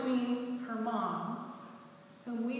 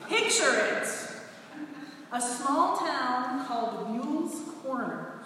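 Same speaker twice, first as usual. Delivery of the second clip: punchier take on "Picture it." with a falling end; Sophia Petrillo; 2 semitones higher than usual. Retold or imitated. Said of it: "I'm doing my best Sophia Petrillo".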